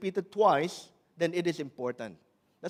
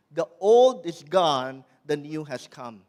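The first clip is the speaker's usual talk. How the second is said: proclaiming scripture; 2 semitones lower, 6 dB louder than usual. Acted. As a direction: proclaim it to the congregation. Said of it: "the Bible reminds us".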